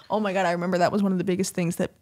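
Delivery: whispering. Real, not acted. Unvoiced aside while complaining.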